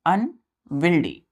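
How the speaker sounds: अनविल्डी drawn out slowly, syllable by syllable; slow model word. Shown as a demonstration. Teacher to pupils, spelling a word, slow clear model. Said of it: "यू N W I E L D Y".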